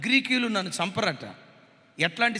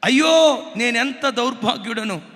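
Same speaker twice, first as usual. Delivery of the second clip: anguished cry; 3 semitones higher, 10 dB louder than usual. Retold or imitated. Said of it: "ఈ మాట చెప్పి".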